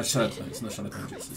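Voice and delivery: burping mid-sentence; words broken by burps. Real, not acted. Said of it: "Sorry, I'm burping a lot".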